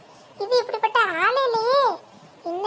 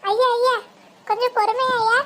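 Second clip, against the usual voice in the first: urgent call; 2 semitones higher, 4 dB louder than usual. Acted. Interrupting the visitor's insult urgently.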